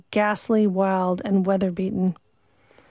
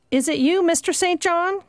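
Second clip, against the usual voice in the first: called out higher, surprised; a higher, relieved cry to the master; cried out; 8 semitones higher than usual. Acted. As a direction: call out to him through the door. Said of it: "cried Hannah".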